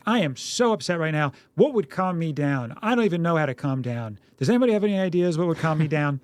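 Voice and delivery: mildly play-acted distress; make-believe upset, not in earnest; pretend upset. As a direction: put on a mild fluster for a child. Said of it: "pretend you're upset".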